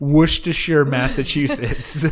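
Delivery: Worcestershire said "WUSH-tuh-shire" as a town; joke mispronunciation. Pretend. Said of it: "that's pronounced Worcestershire".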